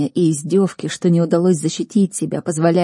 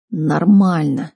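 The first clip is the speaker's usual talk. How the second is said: slow, drawn-out croak; weak, laboured reply; 4 dB louder, much slower than usual. A narrator's reading. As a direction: force the word out slowly, as if hurt. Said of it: "прохрипел я".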